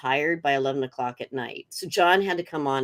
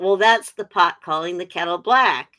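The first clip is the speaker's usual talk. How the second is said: mild mock yell, a bit louder; retold heckle; 5 dB louder than usual. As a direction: call it out like a half-hearted heckle. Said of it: "I kinda yelled out".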